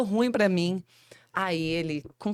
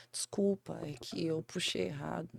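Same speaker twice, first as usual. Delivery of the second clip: desculpa envergonhada; 9 dB quieter than usual. Retold or imitated.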